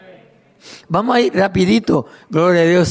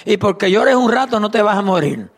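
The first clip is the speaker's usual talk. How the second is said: mother's scolding; 4 semitones higher than usual. Retold or imitated. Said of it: "así nos decía ella".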